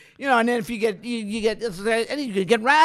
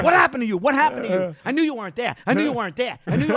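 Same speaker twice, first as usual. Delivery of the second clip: higher-pitched mock reproach; retold scolding; 4 semitones higher, faster than usual. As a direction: imitate an exasperated co-star pressing you.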